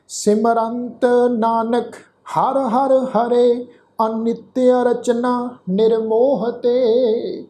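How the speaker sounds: slow, measured chanting of the verse; scripture recitation. Shown as a demonstration. Teacher leading the sangat through the shlok, slow recitation. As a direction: recite each syllable slowly for the congregation. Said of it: "ਇਹਨੂੰ ਸੁਣੋ ਧਿਆਨ ਨਾਲ".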